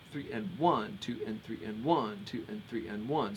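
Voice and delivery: triple-meter count with ONE accented; steady "three N one" count, weight on "one". Shown as a demonstration. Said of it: "a three meter".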